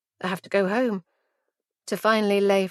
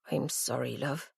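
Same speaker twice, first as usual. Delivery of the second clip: soft tearful whisper; barely voiced apology, close to tears; 7 semitones lower, 12 dB quieter than usual. A narrator's reading. Mum whispering sorry to her daughter, hushed. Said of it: "she whispers".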